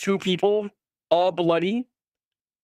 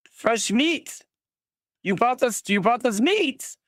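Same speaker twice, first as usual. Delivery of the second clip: raider voice; 7 semitones higher than usual. Acted.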